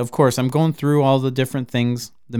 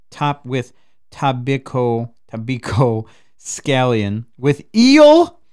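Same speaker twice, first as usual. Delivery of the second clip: savoring, building; 5 dB louder, slower than usual. Real, not acted. Listing roll ingredients with relish.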